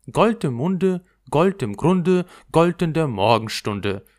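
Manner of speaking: a lightly voiced buttercup chanting; buttercup's rhyme. A narrator's reading. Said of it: "sagte die Butterblume".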